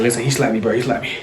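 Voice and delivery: imitating winded, fading speech; out of breath. Winded boy tells his brother he got slapped, acted breathless. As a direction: get the words out softly on little air. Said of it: "I'm out of breath".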